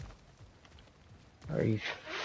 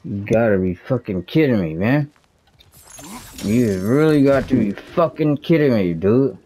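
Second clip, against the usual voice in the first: louder and higher, building exasperation at the game; frustrated outburst; 4 semitones higher, 4 dB louder than usual. Real, not acted. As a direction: vent at the screen, rising in pitch. Frustrated gamer ranting at game.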